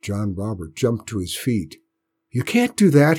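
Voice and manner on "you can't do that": put-on boy's loud, high protest. A narrator's reading. Boy protests to Aunt Bess, raised and high. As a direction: cry out against the sale. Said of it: "he protested".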